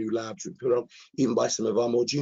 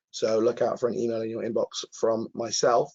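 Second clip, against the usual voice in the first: hoarse, croaky throat from a cold. Real, not acted. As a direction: speak through a croaky, sore voice. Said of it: "bearing with me with my very croaky voice".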